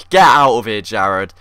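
loud mock shout, drops at the name; shouting him off. Player yelling at pushy Jared to go away, mock shout. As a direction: brush the pest off with a yell.

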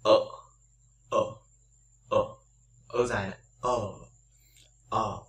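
"ở" held as a long open er, mouth relaxed; long er sound demo. Shown as a demonstration. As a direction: stretch "ở" out into a long neutral er. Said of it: "chúng ta sẽ phát âm như thế này".

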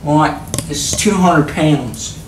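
put-on slow, accidental Australian accent. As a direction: drift lightly into drawn-out Australian vowels. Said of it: "I don't know why I'm talking Australian".

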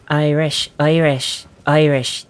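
rough Irish accent on one repeated word; Irish accent attempt. Shown as a demonstration. Gamer remembering how to do it, Irish accent. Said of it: "trying to remember how you do an Irish accent".

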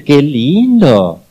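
slow, drawn-out mother's praise; lightly voiced mom cooing; praising mother. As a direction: stretch it out like a doting mom. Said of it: "Pero la mamá dice".

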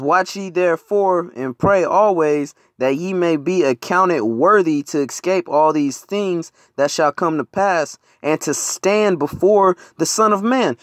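slow, measured reading of the verse; slow scripture reading. Acted. Preacher reading Luke to brothers, slow and measured. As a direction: give each phrase weight, slowly. Reads Luke aloud to congregation.

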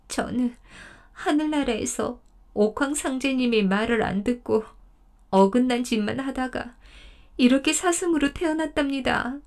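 mild choked voice, rising toward the end; choked-up deer. Acted. 사슴이 할아버지에게 사연을 털어놓으며 목멘 소리로. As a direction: tell the story with a lump in the throat. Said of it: "목맨 소리로 말했습니다".

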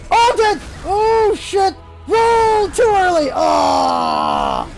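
high cries stretching into a long yell; dismayed shouting. Real, not acted. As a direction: shout it out, drawing out the last words. Player dies after mistimed roll.

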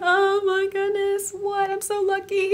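high, slow, dreamy gush; acting out her own smitten thoughts, high and slow; gushing inner voice. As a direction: swoon over him in a lifted sing-song. And I'm like.

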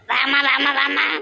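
eager call across the yard. Acted. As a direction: call her over gladly. Grandmother calling the daughter over.

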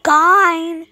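"Gine." said high and loud for nine; mispronounced nine. Retold or imitated. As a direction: say "Gine." with a hard g. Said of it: "He would say".

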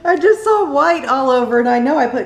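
talking through laughter; laughing while explaining. Real, not acted. Caught mixing up cream cheese.

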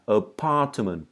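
"apartment" with a long open A; teacher models "apartment" for students to repeat. Shown as a demonstration. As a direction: stretch the first vowel of "apartment". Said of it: "Các bạn đọc theo mình nào".

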